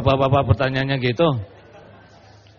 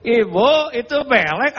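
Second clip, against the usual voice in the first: louder, higher, blunt public call-out; tactless blurt; 5 semitones higher, 3 dB louder than usual. Retold or imitated. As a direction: blurt it out for all to hear.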